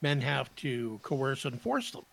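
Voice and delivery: mock-sincere explanation, tongue in cheek; sarcastic. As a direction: state it as if in earnest, dripping irony. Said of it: "He's being sarcastic, folks".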